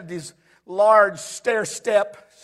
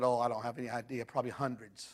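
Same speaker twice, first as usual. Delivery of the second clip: very soft, low retold answer; hushed reply; 9 semitones lower, 12 dB quieter than usual. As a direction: murmur it, barely voiced. Man's quiet reply, retold.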